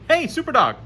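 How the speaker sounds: high, bright cheer. Real, not acted. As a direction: cheer the dog on like a fan. GM cheers the dog's roll.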